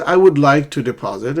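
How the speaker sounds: "I would" said in full in "I would like to deposit"; uncontracted form. Shown as a demonstration. Teacher allowing the long form, "I would" uncontracted. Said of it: "You can say".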